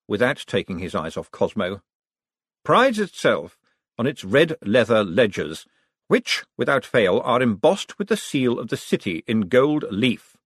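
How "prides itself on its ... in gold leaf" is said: slow, deliberate statement; Vetinari. Acted. Vetinari explaining the ledgers to the room, slow and deliberate. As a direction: lay it out with icy patience.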